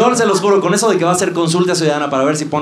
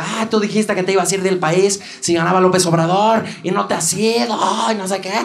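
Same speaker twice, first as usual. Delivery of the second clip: lightly voiced woman's complaint, pitched up; heckling woman; 5 semitones higher than usual. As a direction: imitate a mild mock yell from a heckler. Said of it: "Y una señora le grita".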